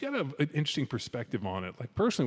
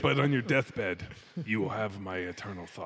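put-on Scottish accent. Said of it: "you do the accent".

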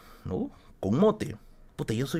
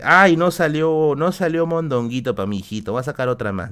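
mamá sorprendida; 3 semitones higher, 4 dB louder than usual. Retold or imitated. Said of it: "Y dice".

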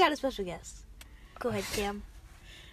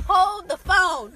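mock stop; 3 semitones higher, 5 dB louder, much slower than usual. Jokingly stopping the conversation.

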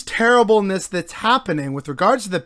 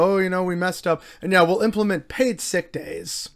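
mock contrite politician; 4 dB quieter than usual. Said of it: "crocodile tears about".

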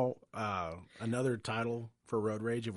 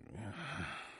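long tired sigh; exasperated sigh; 9 dB quieter than usual. Retold or imitated. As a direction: sigh it out, fed up. Exasperated reaction.

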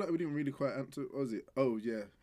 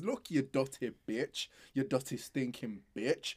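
mock insult; slower than usual. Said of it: "All right, calm down".

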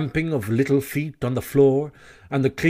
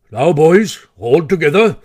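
rallying command; 5 dB louder than usual. Acted. Badger rallies friends to heave.

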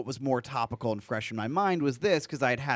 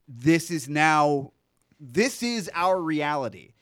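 mock ominous; 3 semitones higher than usual.

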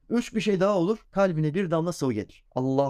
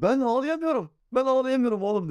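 lament; 10 semitones higher than usual. Retold or imitated. Father recalls being unable to cry.

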